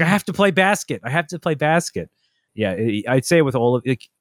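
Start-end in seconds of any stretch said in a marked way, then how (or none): 0.0-2.1 put-on high, insistent little-kid voice; toddler voice. Toddler demanding to play basket, high insistent voice. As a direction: whine like a four-year-old. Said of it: "He's like".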